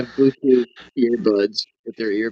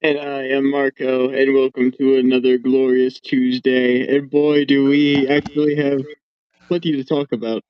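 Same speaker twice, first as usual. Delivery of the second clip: tin can phone. Real, not acted. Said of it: "why do you sound like you're talking into a tin can".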